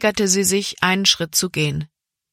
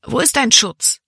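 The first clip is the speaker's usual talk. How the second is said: higher, understated outcry; inward cry; 6 semitones higher, 3 dB louder than usual. A narrator's reading. Libby silently reproaching God, restrained cry. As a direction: plead upward, holding back the scream. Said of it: "wollte sie herausschreien".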